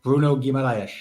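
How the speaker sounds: "Bruno Guimaraes" said the Portuguese way, "Gee-ma-ra-esh" with a rolled r; Portuguese pronunciation. Shown as a demonstration. Asked by the host to say the new signing's name, native pronunciation. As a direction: give the name its native Brazilian sound. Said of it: "I want to hear Mister Lynch say his name".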